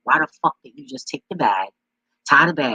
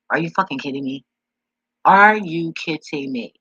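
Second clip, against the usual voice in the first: exasperated outburst; 4 semitones higher, 8 dB louder than usual. Real, not acted. Venting about the aunt's excuse, exasperated and loud. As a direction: drag it out in disbelief.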